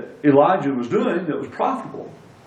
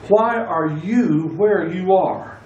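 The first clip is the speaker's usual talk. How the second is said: slow question with the first "you" drawn out; stress on YOU; 2 semitones higher, slower than usual. Shown as a demonstration. Preacher pressing the question on the congregation, stress on "you". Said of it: "place the emphasis on the other word".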